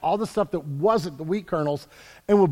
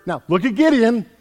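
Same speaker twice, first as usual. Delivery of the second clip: ordinary delivery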